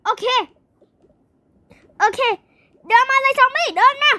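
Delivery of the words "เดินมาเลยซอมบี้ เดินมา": high, raised-voice dare; playful battle taunt, pitched high; calling out a challenge. Pretend. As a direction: goad the zombie closer, high and keen. Calling zombie on in play.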